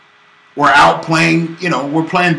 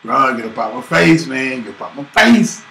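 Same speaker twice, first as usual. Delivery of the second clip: tough talk; 2 semitones lower than usual. Retold or imitated. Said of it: "I said".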